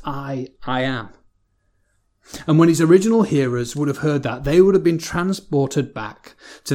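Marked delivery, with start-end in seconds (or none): 0.1-1.1 "I, I am" said slowly, the I doubled; slow, weighty "I, I am" with the first I standing apart; doubly emphasized. Shown as a demonstration. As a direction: dwell on "I", then land "I am" deliberately. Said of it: "almost doubly emphasized".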